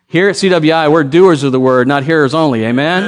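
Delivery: preacher demanding a livelier amen. Shown as a demonstration. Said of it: "Oh, no, no, come on".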